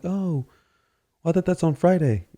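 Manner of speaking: high, sing-song mock voice; knowing bystanders. Father imitating onlookers who know bed day is Friday. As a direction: chirp it like a know-it-all. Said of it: "And they're like".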